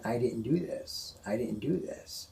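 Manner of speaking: slowly, each word weighed, a mild retold plea; slow insistent denial. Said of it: "He keeps saying".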